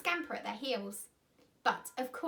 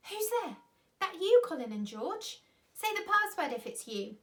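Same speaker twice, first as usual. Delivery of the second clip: calling out; 6 semitones higher, 5 dB louder than usual. A narrator's reading. Peter calling up from cellar.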